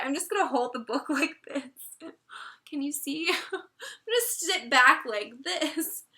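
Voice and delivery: holding back real tears with a laugh; teary, half laughing, half crying; near tears. Real, not acted. Reviewer fights tears while holding up the book, teary. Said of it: "not start crying about it".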